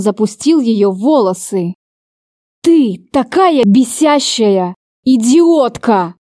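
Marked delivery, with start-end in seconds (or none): 2.6-6.2 slow, every word pushed through teeth; slow gritted insult, pressing every word; each word pressed. A narrator's reading. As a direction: grind out each word slowly. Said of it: "С нажимом на каждое слово процедил он".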